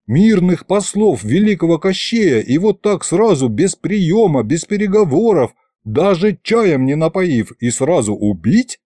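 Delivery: high-pitched incredulous list; indignant disbelief. Acted. Fedya protests killing peaceful envoys, indignant disbelief. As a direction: pile up the grievances, then drop.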